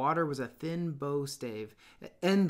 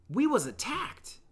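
put-on fat boy voice; 10 semitones higher than usual. A narrator's reading.

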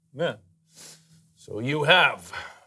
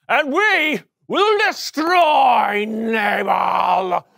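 angry ranting. Acted. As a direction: whip the men into fury. David ranting to his men.

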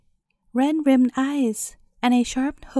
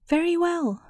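a touch of grim menace, pitched up; grim old woman; 5 semitones higher than usual. Acted. Old woman answers the cobbler's wife, grim and lightly voiced. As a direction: say it coldly, promising trouble. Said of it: "answered the old woman grimly".

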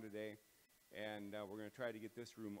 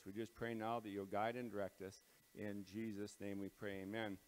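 prayer. Acted. Leads a prayer.

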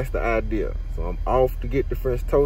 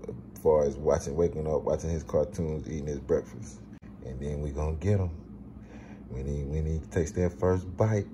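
quiet; 5 semitones lower, 6 dB quieter than usual. Real, not acted. Plotting prank quietly.

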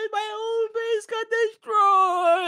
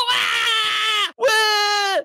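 high frightened scream; 3 semitones higher, 4 dB louder than usual. Real, not acted. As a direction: let out a scared shriek. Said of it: "screaming like a little girl".

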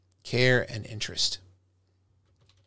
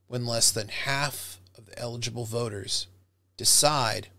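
concerned and grave. Shown as a demonstration. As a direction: speak with heavy worry. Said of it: "an example of how to do that emotional language".

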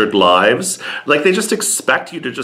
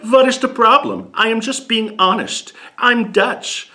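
mock Dutch bluntness; 11 semitones higher than usual. Imitating blunt Dutch men.

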